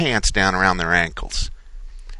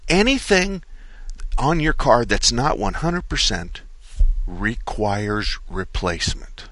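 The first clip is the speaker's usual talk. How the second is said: quoting the manager slowly; slower than usual. Retold or imitated. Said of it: "This is what he said".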